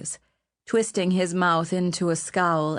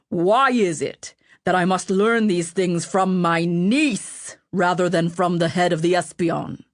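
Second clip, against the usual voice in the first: angry king; 3 dB louder than usual. Acted. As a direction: rebuke him with icy anger. The annoyed king rebukes Ratcliffe.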